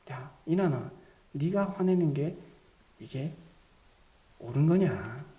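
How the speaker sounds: low-pitched gentle counsel with pauses; loving, merciful questioning. Retold or imitated. God questioning the angry speaker, gentle and merciful. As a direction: reason tenderly, keeping the voice low. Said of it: "하나님께서 사랑과 자비와 은혜의".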